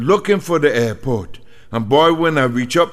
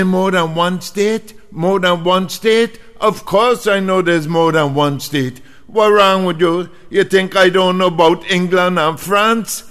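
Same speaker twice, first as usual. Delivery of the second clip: indignant; 4 semitones higher than usual. Retold or imitated. Insulted reply.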